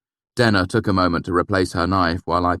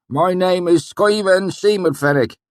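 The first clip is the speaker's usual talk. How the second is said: put-on valley accent; 14 semitones higher, 7 dB louder than usual. A narrator's reading. Swineherd greeting the narrator, pleased, thick valley accent.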